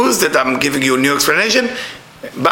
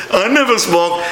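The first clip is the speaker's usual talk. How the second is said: lightly smug; 3 semitones higher than usual. Retold or imitated. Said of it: "those people who talk like this".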